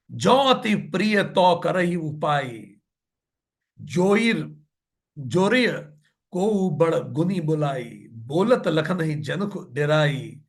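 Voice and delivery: slow, drawn-out scripture chanting; measured devotional verse reading; verse recitation. Acted. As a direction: recite the couplet slowly, stretching each word.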